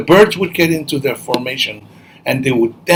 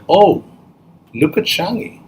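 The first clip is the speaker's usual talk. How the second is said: higher-pitched teasing jeer; lightly acted taunt; mock bullying; 5 semitones higher than usual. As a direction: tease her as the village bullies would. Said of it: "They would bully her".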